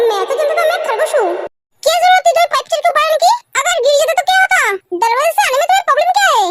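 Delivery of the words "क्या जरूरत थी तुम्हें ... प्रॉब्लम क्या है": angry scolding. Acted. Girlfriend scolds him for climbing.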